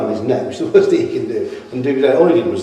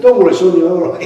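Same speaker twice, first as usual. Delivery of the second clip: reassuring; 7 semitones higher, 9 dB louder, faster than usual. Retold or imitated. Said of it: "treated him like a little boy".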